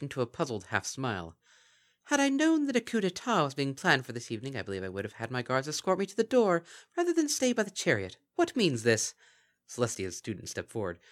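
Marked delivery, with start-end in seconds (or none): 2.1-9.1 high, formal archaic royal voice; regal Princess Luna. Acted. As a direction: speak with puzzled majesty. Luna at the doorway.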